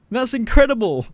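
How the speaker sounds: excited. Real, not acted. Amazed at balancing golf club.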